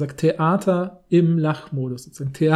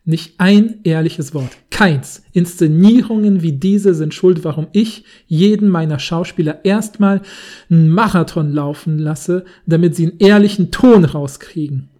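passionate theatre director; 6 dB louder than usual. Pretend. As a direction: declaim it like a fed-up director. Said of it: "ich kann's auch mal versuchen, in der Art vorzulesen".

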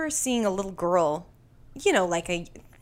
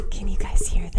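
ASMR whisper. Acted. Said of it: "A S M R".

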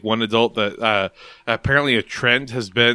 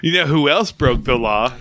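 upbeat youth pastor tease, slightly louder; pep it up like a youth group leader; 2 semitones higher, 3 dB louder than usual. Pretend. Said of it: "I say in my youth pastor voice".

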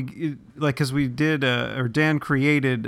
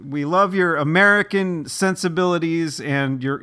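hammed-up Italian accent, calling the band over; 5 semitones higher than usual. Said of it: "that's my Italian accent".

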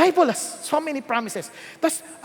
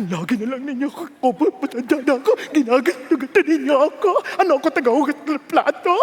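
mock sulky elder. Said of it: "medyo madamdamin".

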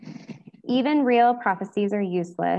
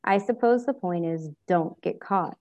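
drawled. Acted. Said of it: "he drawled".

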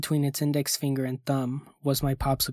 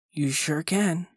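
chipper; 3 semitones higher, slower than usual. Acted. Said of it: "the chipper voice answered".

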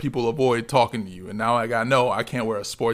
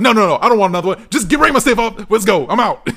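higher, louder and fast, laughing by the end; fast fed-up retold refusal with laughter; exasperated refusal; 9 semitones higher, 9 dB louder than usual. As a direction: rattle off the no's like you're done with this store. Retells refusing cashier, fed up.

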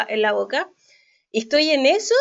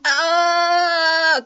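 imitated pained gasp; 5 semitones higher than usual. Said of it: "empezó a hacer un ruido como".

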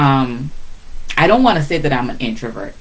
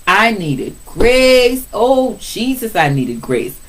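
exasperated plea; 7 semitones higher, slower than usual. Real, not acted. Mother remembering her teen daughter, drawn-out exasperated plea. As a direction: groan it out like a worn-out mom.

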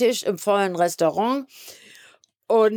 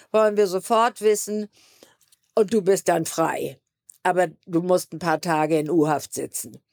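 cool and detached. Retold or imitated. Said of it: "sagt so ganz cool".

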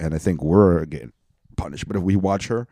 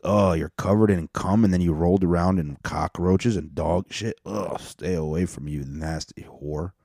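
disgusted. Acted. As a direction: act out mild disgust, slowing on the last insult. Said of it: "that's how I look at her".

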